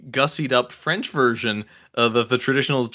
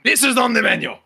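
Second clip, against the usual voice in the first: excited proclamation; 9 semitones higher than usual. Acted. Chef delighted by dish.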